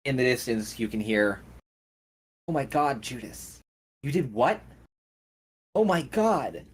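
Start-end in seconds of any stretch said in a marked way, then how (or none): 2.5-6.6 shocked, rising alarm; horrified disbelief, raised pitch; old lady panicking at news; distant panic. Acted. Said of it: "an argument start to break out".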